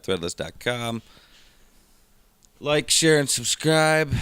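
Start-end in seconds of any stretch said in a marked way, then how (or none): 2.6-4.1 higher, upbeat outro voice; YouTuber sign-off. Shown as a demonstration. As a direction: sing out the channel plug. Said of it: "doing the YouTuber sign-off".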